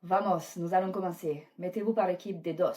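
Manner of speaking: loud group instructions; rally the camp into teams, loudly; calling out. Acted. Camp leader starts the game.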